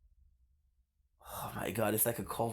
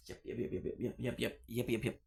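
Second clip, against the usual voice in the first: whispered yeps; 6 dB quieter than usual. Real, not acted. Quietly agreeing repeatedly.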